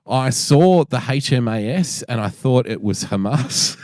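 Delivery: slow, laughing through the words; laughing punchline. Retold or imitated. Telling a friend the backpacker's Hamas mix-up, slow and laughing. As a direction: barely hold it together telling it.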